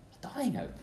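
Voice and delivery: breathy whisper of dying hope; preacher whispering the refrain to the congregation. Real, not acted. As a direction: let it fall to a whisper.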